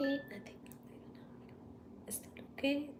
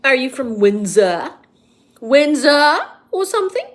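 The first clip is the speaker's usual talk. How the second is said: put-on posh young London drawl; 6 dB louder than usual. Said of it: "Why do you sound so posh?".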